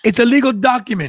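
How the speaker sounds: a lightly put-on Aussie voice; mock Aussie accent. Co-host quips as Rhea in a mock Australian accent. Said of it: "That's British, not Australian".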